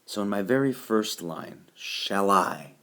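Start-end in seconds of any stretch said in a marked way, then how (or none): 1.7-2.7 "shall I" with the weight on I; light "shall", firm "I"; stress on I. Shown as a demonstration. Teacher sounding out the first line, stress on I. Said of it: "I is the stress syllable".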